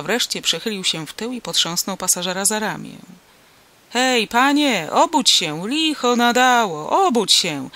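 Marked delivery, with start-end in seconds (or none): 3.9-7.7 loud, impatient wake-up call; raised voice, pitched up, irritated farmer waking a passenger; rousing a sleeper. A narrator's reading. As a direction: call out loudly to wake him. Farmer shakes sleeping passenger awake.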